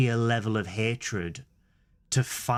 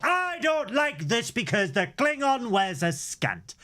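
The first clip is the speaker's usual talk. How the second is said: mock whiny fan voice; 12 semitones higher than usual. Mocking complaining fans.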